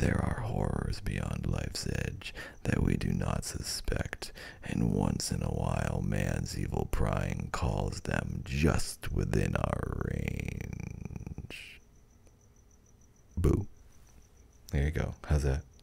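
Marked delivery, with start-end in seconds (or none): 0.0-11.8 eerie creaky drawl, very low and slow. Trying a second take reading a passage aloud, in a better spooky voice. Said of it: "a better spooky voice".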